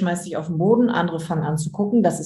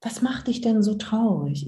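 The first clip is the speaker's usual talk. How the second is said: gentle comforting. Shown as a demonstration. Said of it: "ich kommuniziere, was ich wahrnehme".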